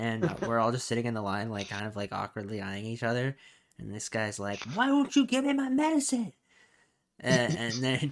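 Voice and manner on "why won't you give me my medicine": very high-pitched screaming. Retelling a man at the pharmacy counter: imitating a man screaming. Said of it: "start screaming at the pharmacist".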